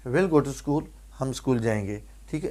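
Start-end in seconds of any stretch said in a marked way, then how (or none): 0.1-0.8 "will" standing for we'll, one syllable; contracted pronunciation. Shown as a demonstration. Teacher giving an example sentence for students, contracted pronunciation. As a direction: open with we and will merged into "will". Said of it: "ایک دفعہ ہی will بولیں گے، جیسے".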